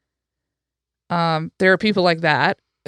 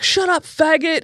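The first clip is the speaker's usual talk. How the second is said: hostile sneer; 9 semitones higher than usual. Retold or imitated. Drunk man insulting the speaker.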